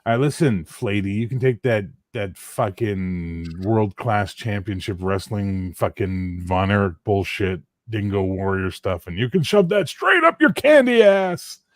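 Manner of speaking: hammed-up Rock promo aimed at Flatey; The Rock impersonation. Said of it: "trying to do The Rock impersonation".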